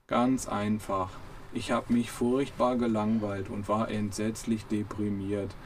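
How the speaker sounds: very slow, mildly weary; a hint of a bored, gloomy robot; slow understated robot boredom. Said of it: "sagte Marvin".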